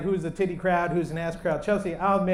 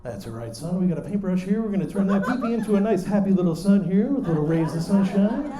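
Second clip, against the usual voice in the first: Bob Ross. Retold or imitated. Dad to son after bed-wetting, gentle encouragement. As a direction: soothe like a mellow TV painter, lightly voiced. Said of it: "And it was Bob Ross".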